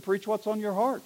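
soft, understated punchline; quiet, offhand echo of advice; deadpan comeback. Acted. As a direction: drop the voice and hand the line back. Intern throws bishop's words back.

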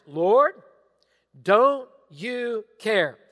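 slow, loud pleading Lord don't you care; Martha's complaint. Retold or imitated. Martha pleading with Jesus, slow and loud. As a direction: drag it out like a wronged sister.

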